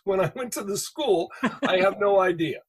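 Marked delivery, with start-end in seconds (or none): 1.7-2.6 amused and laughing it off; chuckling disbelief. Real, not acted.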